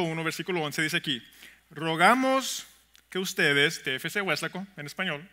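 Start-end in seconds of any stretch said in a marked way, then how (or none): 1.7-3.8 slow reading. Shown as a demonstration. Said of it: "lo quiero leer un poco más lentamente".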